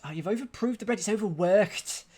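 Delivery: playful Liverpool Scouse voice; Scouse accent. Acted. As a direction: put on Scouse for the telling-off. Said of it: "that one word in a Scouse accent".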